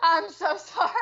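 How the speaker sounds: sorry through laughter; embarrassed laughing apology. Real, not acted. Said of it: "I thought I muted myself".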